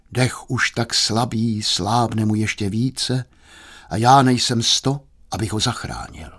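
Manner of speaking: slow, understated despair; slow down and sink into helplessness. Acted. Doctor unable to save him, slow mild despair. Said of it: "pravil zoufale doktor".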